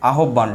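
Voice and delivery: আহ্বান said as "a-hob-ban"; আহ্বান with h and "bb" sounded; common mispronunciation. Shown as a demonstration. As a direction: say আহ্বান by its letters, with a hard doubled b. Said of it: "আমরা অনেক সময় বলি কি".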